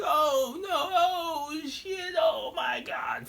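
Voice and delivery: high-pitched, half-laughing wail; laughing disbelief. Retold or imitated. Himself heard all through the video, laughing disbelief. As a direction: imitate helpless horrified amusement way up high. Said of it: "you can just hear me like".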